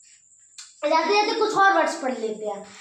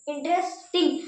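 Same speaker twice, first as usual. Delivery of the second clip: इंटरेस्टिंग in two pieces, stopping at the S; pause before टिंग. Shown as a demonstration. Teacher demonstrating syllables, इंटरेस्टिंग split before टिंग. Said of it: "S पे रुक रहे हैं".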